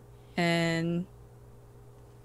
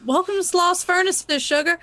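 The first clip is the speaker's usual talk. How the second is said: higher, teasing, drawn sweetness; a hint of a sardonic Southern hostess; sly welcome; 7 semitones higher than usual. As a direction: purr the endearment. Madeline's sly greeting.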